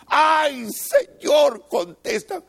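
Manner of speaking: high shout for an answer; desperate plea. Acted. Believer sinking, shouting up to God.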